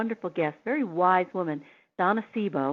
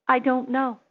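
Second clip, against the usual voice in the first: stunned owner; 6 semitones higher, 5 dB louder than usual. Retold or imitated. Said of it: "she paused like I had put cold water".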